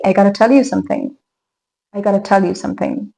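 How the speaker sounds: "gotta" run together as one word; connected native speech. Shown as a demonstration. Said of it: "we can say".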